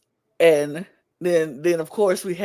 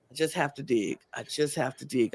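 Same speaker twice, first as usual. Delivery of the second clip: determined self-talk; 4 semitones lower, 8 dB quieter than usual. Retold or imitated. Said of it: "So now he's like".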